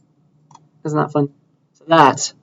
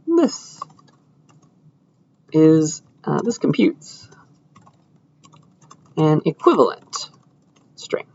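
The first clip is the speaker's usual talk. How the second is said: whispered typing; 5 dB quieter, slower than usual. Real, not acted. Typing a code comment.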